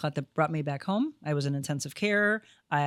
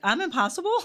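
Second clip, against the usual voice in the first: mock surprise; 10 semitones higher than usual. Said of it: "I was like".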